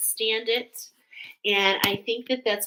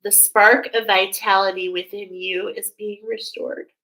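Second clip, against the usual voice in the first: louder, solemn proclaimed message; channeled archangel; 5 dB louder than usual. Pretend. Reader passing an archangel's message to the viewer, louder and solemn. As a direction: announce it as the angel's voice. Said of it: "Archangel Haniel wants to say to you".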